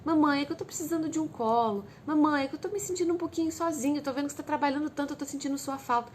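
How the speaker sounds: put-on child confiding sadness. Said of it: "ele não sabe chegar e falar assim".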